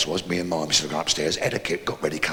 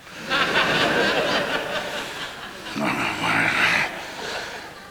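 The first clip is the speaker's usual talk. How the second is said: laugh; 3 semitones lower than usual. Real, not acted. Laughs after his own dirty line.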